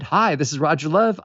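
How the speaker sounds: "Hi, this is Roger Love" with the tune rising on "Love"; bright rising voicemail greeting; upbeat greeting. Shown as a demonstration. Caller recording a hopeful voicemail, rising tune. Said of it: "And they're descending melodies".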